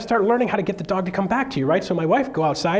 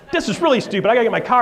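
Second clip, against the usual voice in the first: building retold frustration; 6 semitones higher, 5 dB louder, faster than usual. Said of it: "I'm like".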